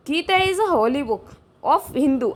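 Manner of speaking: slow, deliberate sentence reading; slow dictation read. Shown as a demonstration. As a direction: read it word by word for students. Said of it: "reading exam sentence slowly".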